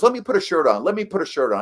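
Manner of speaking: put-on an old manager fussing over his look; hearty insistence. Sparky insisting on a shirt before the interview, hearty and loud.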